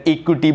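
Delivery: इक्विटी said wrongly as "ik-koo-tee"; mispronounced इक्विटी. Shown as a demonstration. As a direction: say इक्विटी with a long "koo" in the middle. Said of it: "बोलते हो तो गलत है".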